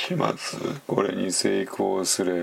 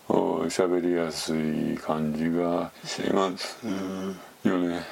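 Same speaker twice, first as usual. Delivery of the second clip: relaxed burp area voice; 4 semitones lower than usual. Shown as a demonstration. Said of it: "ゲップエリアで喋ってるような感じ".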